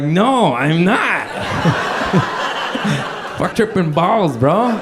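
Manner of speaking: tripping driver answering the ranger; panicked blurt. Retold or imitated. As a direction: confess in a frantic rush. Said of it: "I don't say that".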